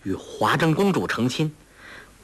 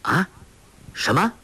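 startled rise on 什么; a sudden what, caught off guard; surprised; 6 semitones higher than usual. A narrator's reading. Guo Jing hears she is not the Khan's daughter, surprised. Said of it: "郭靖奇道".

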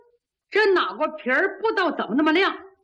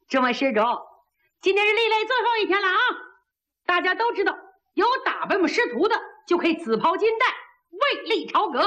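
a lightly voiced proud young monk addressing the crowd; haughty monk; 3 semitones higher than usual. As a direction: announce it like a cocky monk. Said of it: "高诵佛号". (略带傲气的小和尚喊话)

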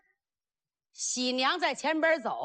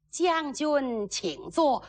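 bride's polite invitation; 3 semitones higher, slower than usual. Acted. Bride politely offers a seat.

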